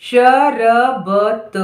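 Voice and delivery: very slow dictation; शरबत drawn out as श, र, ब, त; syllable by syllable. Shown as a demonstration. Dictating word sound by sound.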